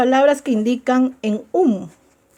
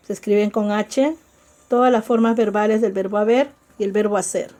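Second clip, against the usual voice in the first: "todas las formas verbales" rattled off fast; fast recap of the rule for the class; quick repeat; faster than usual. Shown as a demonstration. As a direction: rush through the repeated rule. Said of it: "teacher repeats the rule faster".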